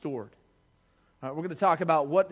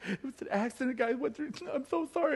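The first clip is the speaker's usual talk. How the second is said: imitating mom; 8 semitones higher, 5 dB quieter than usual. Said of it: "She's like".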